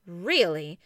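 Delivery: a sly, knowing Really?. A narrator's reading. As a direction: doubt him with a wink in the voice. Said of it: "winking at me slyly".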